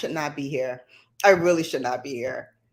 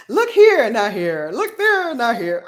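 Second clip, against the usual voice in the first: playful high call; 7 semitones higher, 8 dB louder than usual. Pretend. Playful pointing, mock instruction.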